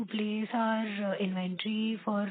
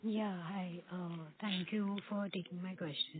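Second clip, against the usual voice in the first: faint voice, far from the mic; barely audible; 6 dB quieter than usual. Real, not acted. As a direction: speak softly, hard to hear. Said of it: "Your voice is very low".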